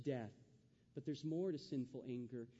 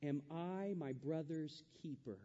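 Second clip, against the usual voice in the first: a touch of dry sarcasm, slowed; lightly mocking Cain, slow; sarcastic Cain; slower than usual. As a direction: drawl the question back at God mockingly. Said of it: "look at how sarcastic he is".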